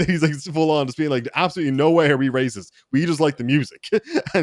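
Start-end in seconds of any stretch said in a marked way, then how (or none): 1.3-3.9 quick mock-offended denial; imitated offended denial. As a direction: protest innocence in a hurry, lightly acted. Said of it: "like, genuinely offended".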